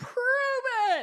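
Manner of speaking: high-pitched, challenging, skeptical tone. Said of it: "And one dude goes".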